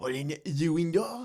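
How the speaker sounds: put-on French accent held throughout. Repeating the line, now in a put-on French accent. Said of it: "I should say that in a French accent".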